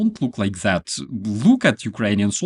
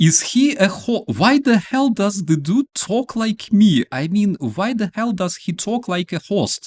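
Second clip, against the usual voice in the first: baffled outrage; 7 semitones higher, faster than usual. Retold or imitated. Hearing the soldier's voice, incredulous that he sounds like a host, high and fast. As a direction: blurt out stunned disbelief. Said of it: "I'm like".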